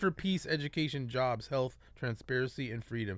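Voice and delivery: measured reading of a manifesto; letter read aloud. Acted. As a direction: read the open letter point by point.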